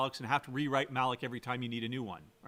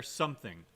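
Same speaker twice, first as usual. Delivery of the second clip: "something" set apart, lower and falling; key word stressed; 3 semitones lower than usual. Shown as a demonstration. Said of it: "I'm emphasizing the key word there".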